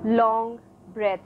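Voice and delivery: measured meditation guidance with long pauses; guided meditation. Real, not acted. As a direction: lead the breath, leaving space between phrases. Leads breathing meditation. (guided breathing meditation)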